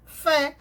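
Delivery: fé said alone, firmly; stressed syllable. Shown as a demonstration. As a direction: isolate fé as the strong syllable. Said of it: "Qual foi a sílaba tônica?".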